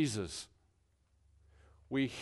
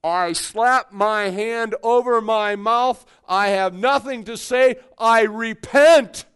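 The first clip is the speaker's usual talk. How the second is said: humbled Job; 2 semitones higher, 6 dB louder than usual. Acted. Job humbled before God.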